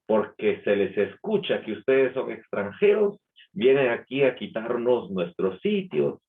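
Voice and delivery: mild mock anger at foreigners; hostile retort. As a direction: mimic her resentful tone, lightly. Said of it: "de una manera muy, muy fuerte".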